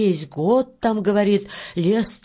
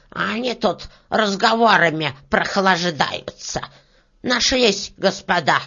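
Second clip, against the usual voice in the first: mildly spiteful beetle scolding; hissing beetle; 3 dB louder than usual. Acted. Beetle scolds her idling sawyers, hissing. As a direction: grumble it with a touch of hiss. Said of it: "зашипела жужелица".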